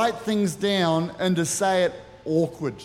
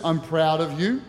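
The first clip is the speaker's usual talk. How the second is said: tender I'm proud of you; 3 semitones lower than usual. Shown as a demonstration. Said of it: "Two is".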